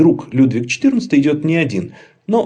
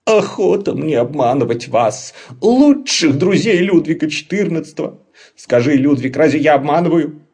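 mock-offended troll; 5 semitones higher, 5 dB louder than usual. Laban protests innocence.

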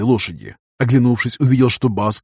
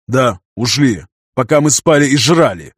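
bitter angry outburst; helpless anger; 3 dB louder than usual. Acted. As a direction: spit it out in furious frustration. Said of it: "В бессильной злобе пнул". (бессильная злость)

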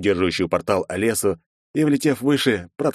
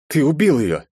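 snake-like hiss; 8 semitones higher, 4 dB louder than usual. A narrator's reading. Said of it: "шипению".

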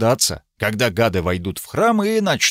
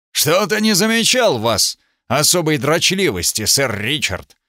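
suspicious; 3 semitones higher than usual. Acted. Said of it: "с подозрением в голосе".

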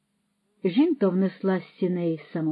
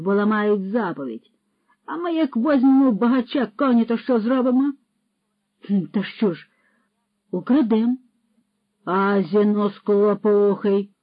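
mock preacher; 3 semitones higher, 7 dB louder than usual. Patrokol lectures Roman on the commandments, mock-preaching. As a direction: preach theft as righteousness.

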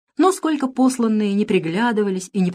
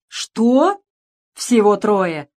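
mocking mimicry; 3 semitones higher, 6 dB louder, much slower than usual. A narrator's reading. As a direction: parrot the monk's words to taunt him. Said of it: "передразнил его маленький Джон". (насмешливое передразнивание)

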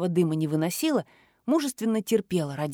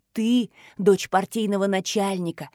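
plain reading voice

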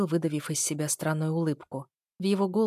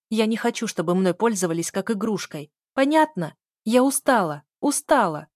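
higher, louder exasperated tirade; angry outburst; 4 semitones higher, 6 dB louder than usual. A narrator's reading. Fed-up heroine refusing the wedding to her sister, angry. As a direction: fire it at her, fed up and insistent.

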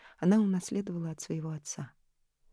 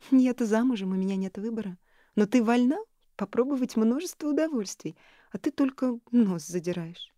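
высоко и громко, с изумлением; всплеснув руками, поражаясь подруге; изумлённо; 6 semitones higher, 5 dB louder than usual. A narrator's reading. Элис упрекает. (Элис поражается холодности Нори)

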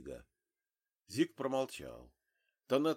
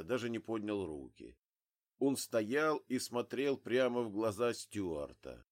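ordinary delivery, nothing marked

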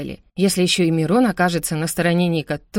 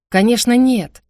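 higher, much louder offended denial; indignant denial; 6 semitones higher, 7 dB louder, slower than usual. Acted. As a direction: brother bristling at the accusation. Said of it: "возмутился Мирон".

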